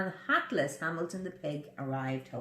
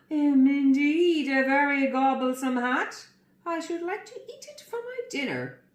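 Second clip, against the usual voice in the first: greedy, louder crocodile voice; drooling crocodile; 6 semitones higher, 5 dB louder than usual. Acted. Crocodile drooling over the hat, louder and greedy. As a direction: relish every word like a hungry croc. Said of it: "drooled the crocodile".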